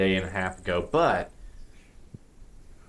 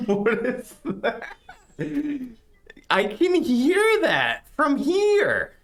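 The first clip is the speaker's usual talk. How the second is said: higher, disgusted character voice. Acted. Character reacts to a smell.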